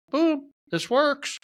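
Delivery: high, slow, drawn-out boom of victory; triumphant exclaim. Retold or imitated. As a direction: crow it like you just solved it. Triumphant discovery, retold.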